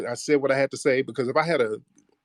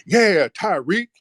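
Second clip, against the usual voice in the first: taunting callout; 8 semitones higher, 4 dB louder, slower than usual. Retold or imitated. Dude snapping fingers, calling him out.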